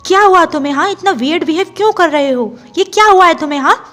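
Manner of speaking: pestering call. Acted. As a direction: badger him loudly for an answer. Wing pesters angry brother Chang.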